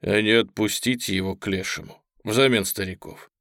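calm, even suggestion; peaceable tone. Acted. Merchant offers lieutenant a compromise, in peaceable tone. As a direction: propose it mildly, cooled down. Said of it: "продолжил мирным тоном".

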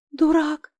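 high, sobbing outburst; sobbing cry. A narrator's reading. She sobs over her wounded friend, high and broken. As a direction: sob the word at him. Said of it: "всхлипнула я".

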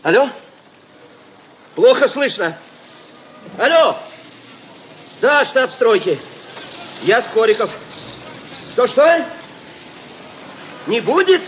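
shouting into a crackly field phone; old crank field telephone. Acted. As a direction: yell down a bad phone line. Shouting down a bad phone line. (громко в трубку полевого телефона)

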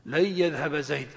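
"لن يذهب" as layyadhhab, nun merged into ya; "لن يذهب زيد" said with the ya doubled. Shown as a demonstration. Teacher repeating the correct merged "لن يذهب". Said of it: "فيجب أن تقول".

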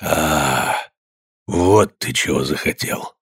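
low, soft strained groan of words; strained, as if crushed. A narrator's reading. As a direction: force it out under a heavy weight. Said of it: "с большим напряжением, словно его давила какая-то тяжесть".

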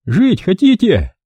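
high, slow menacing thug voice. A narrator's reading. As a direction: dangle their lives slowly. Thug threatens the hostages.

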